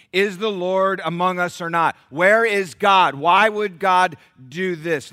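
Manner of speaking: loud, slow, high wail of complaint; loud anguished accusation; accusing cry. Acted. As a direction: throw the people's grievance at heaven. Israelites' complaint voiced by preacher.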